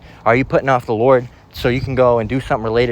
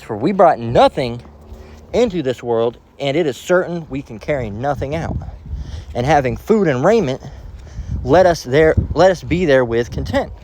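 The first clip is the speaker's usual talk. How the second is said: slow, solemn Bible reading; measured reading of scripture; 2 semitones higher than usual. Acted. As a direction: read the verse with weight. Reads scripture aloud.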